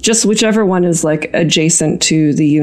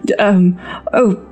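breathless fluster of a fussy aristocrat; flustered noblewoman. Acted. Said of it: "be very, uh, flustered and say".

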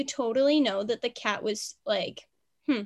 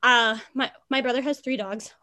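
out of breath. Real, not acted. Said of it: "so out of breath".

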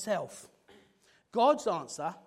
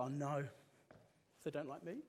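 softer, deflated fretting; sudden worry; 5 semitones lower, 9 dB quieter, faster than usual. Pretend. Single friend fearing rejection, quiet anxious fretting. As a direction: let the doubt creep in quietly.

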